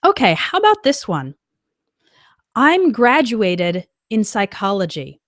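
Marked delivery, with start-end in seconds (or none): 2.6-5.2 the wrong sentence read slowly; slow example read. Shown as a demonstration. Teacher reading a learner's wrong sentence, slow and clear. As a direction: read it out plainly and slowly for the class. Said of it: "more natural way to make this sentence".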